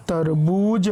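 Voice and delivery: तरबूज run together with the ū held; blended, long ū. Shown as a demonstration. Teacher showing how to join letters, तरबूज with a long ū. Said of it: "इस तरीके से मिला करके पढ़ेंगे".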